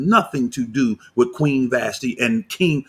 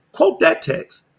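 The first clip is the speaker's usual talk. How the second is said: higher challenge; slower than usual. Real, not acted. Repeating the dare to Kabir, much higher. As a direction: quote much higher, falling.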